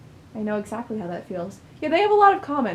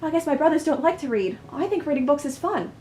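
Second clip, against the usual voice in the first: a hint of an eager child, lightly higher; eager young Mirren; 5 semitones higher than usual. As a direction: lightly voice a keen little boy showing off to mother. Voices young Mirren to his mother.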